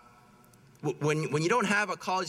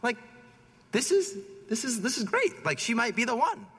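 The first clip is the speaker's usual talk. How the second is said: excited wow; 6 semitones higher than usual. Retold or imitated. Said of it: "And I was like".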